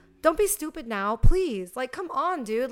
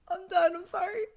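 laughing; 9 semitones higher than usual. Real, not acted. Laughing after joke.

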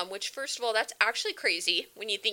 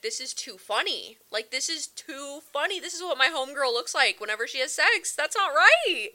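laughing disbelief; 4 semitones higher, 4 dB louder than usual. Retold or imitated. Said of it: "start busting out laughing like".

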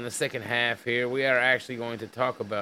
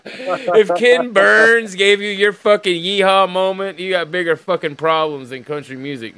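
indignant rant; 6 semitones higher, 8 dB louder than usual. Real, not acted. Host berating the article's writer, indignant rant. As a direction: come in high and loud, then ease off.

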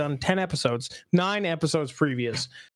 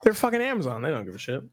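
talking while eating; mouth full; faster than usual. Real, not acted. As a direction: speak through a bite of donut. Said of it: "Sorry, I'm still eating".

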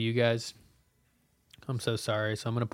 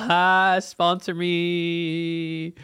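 a laugh, then a very slow, higher, drawn-out sponsor me; laughing plea; 6 semitones higher, 4 dB louder, much slower than usual. Real, not acted. Joking to the beer brand, laughing and slow. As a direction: tease the brand through a laugh.

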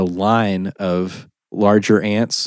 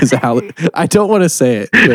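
shouting over fire alarm; 6 semitones higher, 4 dB louder, faster than usual. Real, not acted.

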